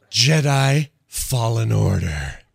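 loud, slow, drawn-out title read; mock title announcement. Streamer echoing the Star Wars title reveal, mock announcer. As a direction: announce it like a big reveal, hammed-up.

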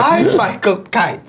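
very slow, high British caricature; hammed-up British star announcing himself; Michael Caine. Shown as a demonstration. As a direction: draw out each word in mock-British. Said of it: "more and more Michael Caine".

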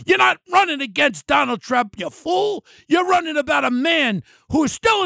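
angry shout. Real, not acted. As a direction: yell it at her like she's in the room. Yelling at governor over debate.

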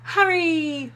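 sharp loud warning call; dangerous voice. Acted. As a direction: snap the names out loud. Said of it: "came Hermione's dangerous voice".

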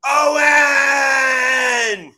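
long high angry shout held out; drawn-out yell. Retold or imitated. Boss Vince shouting down the hall at Owen. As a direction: stretch the name into an outraged bellow.

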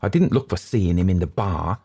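high, rattled waiter's account; frightened waiter. Acted. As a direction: pitch climbing as the fright returns.

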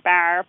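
"bar" with the A pushed far forward; radically fronted "bar". Shown as a demonstration. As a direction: say "bar" with an exaggerated front vowel, toward "bear". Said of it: "It's not radically fronted".

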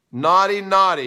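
playfully wag a finger at Ron, a touch hammed-up; mock scolding. Teasing the viewer Ron.

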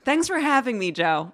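formal broadcast greeting; news anchor voice. Real, not acted. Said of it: "You did it again".

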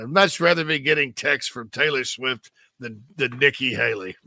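lightly attempted Australian accent. Host jokes about texts from a pop star, mock Australian accent. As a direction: put on a hint of an Australian accent. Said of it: "say this in an Australian accent"

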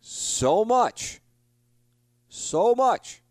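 high, loud, strained wail of regret; so much, a pained high shout; anguished cry. Real, not acted. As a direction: cry out how much it hurt. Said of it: "it was bothering me".

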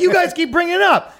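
lightly voiced Trump; Trump impression. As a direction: toss it back like Trump would. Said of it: "And I go".

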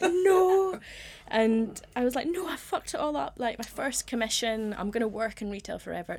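retold tearful despair. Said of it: "I burst into tears".

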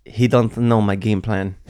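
lightly imitated French accent, slow; a hint of a French accent, unhurried. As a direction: quote a fighter with a slight French accent. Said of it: "with his French accent".

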